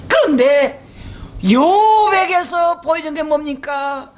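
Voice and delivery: slow, loud preached question; emphatic preaching. Acted. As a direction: boom the question slowly. (느리고 크게 외치듯 설교)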